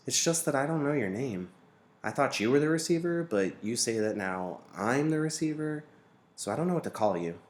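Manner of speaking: put-on a boy a bit unsure asking; earnest young question; boy Jonas. A narrator's reading. Boy asks the name.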